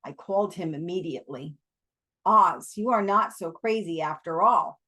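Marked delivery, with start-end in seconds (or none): 2.2-4.8 put-on Afrikaner accent. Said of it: "Abe said in his African accent".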